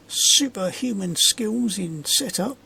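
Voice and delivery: slow, dry sarcastic boast. Acted. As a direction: lay the sarcasm on slowly. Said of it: "Can you hear the sarcasm?".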